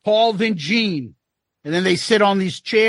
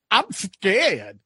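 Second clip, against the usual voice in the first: Paul voice. Retold or imitated. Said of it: "Paul gets asked".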